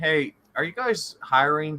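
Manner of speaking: loud, very high hollering call. Playing a character asking the diner owner about work: loud call. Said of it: "basically loudly go".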